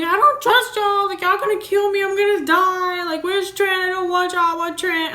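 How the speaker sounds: high, loud, hysterical pleading; panicked crying scream. Retold or imitated. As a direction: shriek it in terror, begging for your husband. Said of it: "I'm, like, crying".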